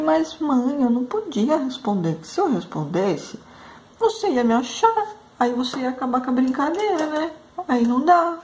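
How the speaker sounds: high, childlike voice, matter-of-fact and lightly mocking; imitating her little son. Mother retelling her son's reasoning, in a high kid voice. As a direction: play the kid innocently defending his game.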